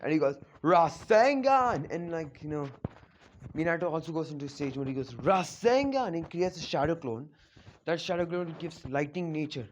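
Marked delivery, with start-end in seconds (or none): 0.6-1.9 high, loud, drawn-out battle cry; attack-name shout. Retold or imitated. Jiraiya attacks in sage mode, battle shout. 5.1-6.1 raised, drawn-out battle cry; attack-name call. Retold or imitated. Minato also goes into sage mode, attack call.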